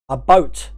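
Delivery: A boat, split into a and boat; boat as two words. Shown as a demonstration. Host showing a boat, not about. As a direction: say A boat with a clear gap and long oa. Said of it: "not about".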